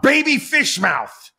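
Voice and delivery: high, slow, eager shouted guess; imitated yelled guess. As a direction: blurt it out like a wild guess in a game. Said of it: "he yells out".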